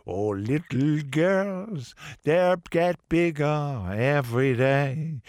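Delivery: put-on slow, lightly done French crooner accent; a French singer's accent. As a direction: croon it slowly in a French accent, half in fun. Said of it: "he had that accent".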